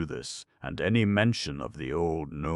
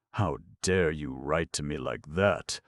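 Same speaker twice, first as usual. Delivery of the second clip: fuming. Acted. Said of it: "fumed Kaliko".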